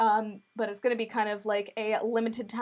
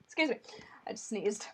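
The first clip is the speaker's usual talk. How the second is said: whispering; 7 dB quieter than usual. Real, not acted. After sneeze, hushed apology.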